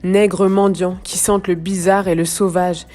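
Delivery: measured, slightly projected poetry recitation; deliberate phrases set apart by pauses; poem reading. Acted. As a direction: read the verse gravely, pausing between lines. Reads another part of poem.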